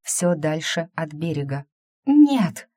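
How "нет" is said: high, loud cry of no; desperate scream. A narrator's reading. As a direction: scream it out as she realises. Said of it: "наконец закричала Эйвери". (отчаянный громкий крик)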